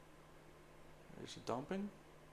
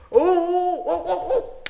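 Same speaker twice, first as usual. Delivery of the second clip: high, laughing oh's; nervous laughing; 11 semitones higher, 7 dB louder than usual. Real, not acted. Trader watching price near his order, nervous laughing. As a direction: laugh through the tension.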